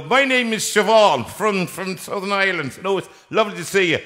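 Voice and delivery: lightly put-on southern Irish accent; a hint of a chatty Irish satnav lady. Host imitating a satnav voice with an Irish accent. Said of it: "the ones with accents".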